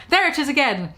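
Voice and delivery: startled by the advert; mock horror. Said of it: "in horror".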